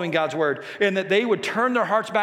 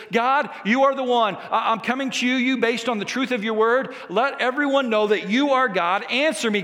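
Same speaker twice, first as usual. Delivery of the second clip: raised-pitch, insistent appeal; bold prayer; 4 semitones higher than usual. Retold or imitated. Elijah asking God to let everyone know, bold prayer. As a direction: pray out with confidence. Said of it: "Did you see this bold prayer?".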